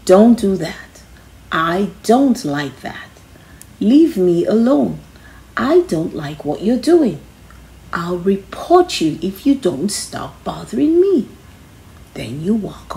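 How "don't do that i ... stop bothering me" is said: steady, firm demo of standing up to a bully; firm and confident. Shown as a demonstration. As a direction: say it like you mean it, calm and sure. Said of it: "in your firmest, most confident voice".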